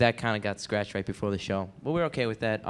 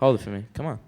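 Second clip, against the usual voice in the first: louder, firmer insistence; loud insistent; 5 dB louder, faster than usual. Acted. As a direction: push the request harder. Repeating the request louder.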